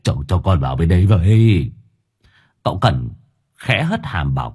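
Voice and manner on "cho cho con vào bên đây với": whimpering plea. Acted. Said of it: "miệng mếu máo".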